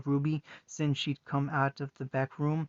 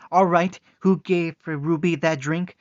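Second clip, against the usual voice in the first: angry demand; 3 semitones higher, 9 dB louder than usual. Acted. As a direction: demand it, barely holding back. Furious sister demanding answers.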